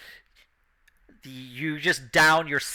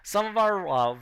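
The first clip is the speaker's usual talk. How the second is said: a lightly raised announcer; 4 semitones higher than usual. Acted. Announcer pointing out the racing champion, lightly raised showman voice. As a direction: keep the showman patter going. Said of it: "And they point, like".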